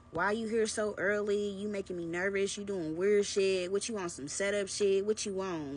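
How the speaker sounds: mock his put-on outrage; mock fake upset. Boyfriend faking upset in her car, mock indignant. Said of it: "tries to fake act like he's upset".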